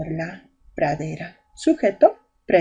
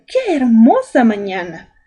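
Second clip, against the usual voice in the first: exclamation; 2 semitones higher, 5 dB louder than usual. Shown as a demonstration. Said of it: "Y está con signo de exclamación".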